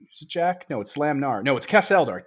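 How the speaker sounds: ordinary delivery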